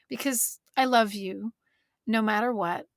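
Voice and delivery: calm, reassuring mother voice, "because I love you no matter what"; gentle mother. Retold or imitated. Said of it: "We say".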